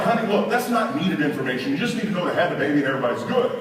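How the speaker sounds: rapid-fire retort, lightly heated; mildly riled up. Acted. Riled husband setting wife straight, mildly heated. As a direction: rattle it off in mock impatience. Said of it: "Now I'm riled up".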